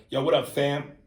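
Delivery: lightly voiced New York street greeting; New Yorker slang. Shown as a demonstration. Host demonstrating how New Yorkers greet each other, casual slang. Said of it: "When New Yorkers go".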